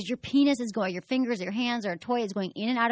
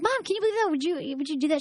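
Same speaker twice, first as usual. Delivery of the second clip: higher pitched, incredulous question to mom; playfully shocked; mock amazed; 7 semitones higher, faster than usual. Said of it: "and I'm like".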